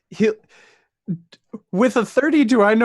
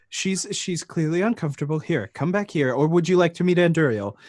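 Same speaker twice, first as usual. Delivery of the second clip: gentle coaxing. Acted. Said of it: "and be like".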